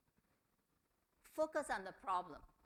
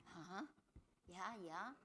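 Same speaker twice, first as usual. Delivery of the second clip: listening noises; 6 dB quieter than usual. Shown as a demonstration. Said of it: "sounds that you use to show that you are listening".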